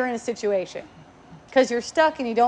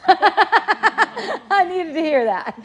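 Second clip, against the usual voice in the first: high, breathy laughter through the words; laughing; 7 semitones higher, 3 dB louder, much slower than usual. Real, not acted. Laughing at the idea of thanking critics, cracking up. Laughing at her own joke.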